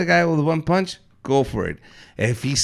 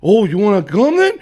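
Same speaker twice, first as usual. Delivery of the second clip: raised, louder fighting challenge; higher, forceful comeback; retold challenge; 4 semitones higher, 6 dB louder than usual. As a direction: call him out, retelling a fight. Acts out challenging the batter.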